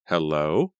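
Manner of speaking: calling out uneasily into the dark; a wary hello into the night; nervous call. A narrator's reading.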